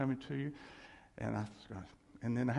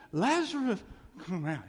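high, loud call on the name, easing after; single out one man by name; specific summons; 5 semitones higher, 5 dB louder than usual. Acted. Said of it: "He's specific".

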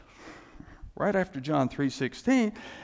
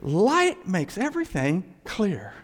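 slow scripture reading; 5 dB louder, slower than usual. Shown as a demonstration. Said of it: "It says".

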